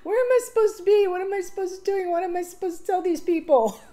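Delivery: high, fast, frantic questions; flustered and lost. Retold or imitated. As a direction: rattle off the questions in a comic panic. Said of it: "so I'm kinda like".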